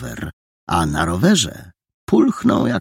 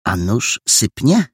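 innocent; 5 semitones higher than usual. Acted. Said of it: "powiedział więc niewinnie".

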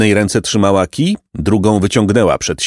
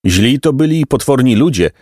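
higher-pitched indignant exclamation; exclaiming; 4 semitones higher than usual. Acted. Boy complaining about horrible people, mild outcry. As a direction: cry it out, pitch raised. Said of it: "zakrzyknął".

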